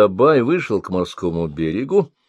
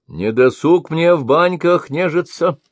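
higher, sharp rebuke; snapping at her; 8 semitones higher, 4 dB louder than usual. A narrator's reading. Sorcerer snaps at the old woman, impatient shout. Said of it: "прикрикнул Рахданит".

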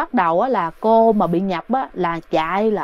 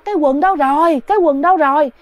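raised, higher frantic calls; mock panicked shouting, higher pitched; retold frantic yelling; 4 semitones higher than usual. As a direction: cry out in a panic for the lost trousers. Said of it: "la làng lên đó hả".

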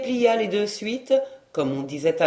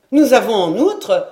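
insistent maid; 3 semitones higher, 6 dB louder than usual. A narrator's reading. Maid stopping him, insisting.

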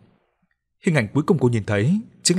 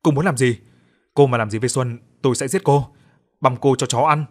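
raised, furious threats; threatening shout; 2 semitones higher, 4 dB louder than usual. Acted. Bound man threatens the captor, angry shout. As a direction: yell a threat at her from across the room. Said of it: "Hoài từ xa hét".

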